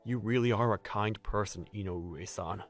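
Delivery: low, softening sincere praise; quietly admiring, voice falling away; tender gratitude. Acted. Newcomer praising a helpful colleague, softly tender.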